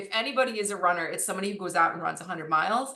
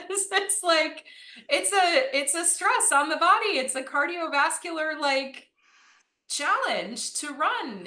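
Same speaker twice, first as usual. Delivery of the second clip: excited; 8 semitones higher than usual. Real, not acted. Excited explaining, high pitch.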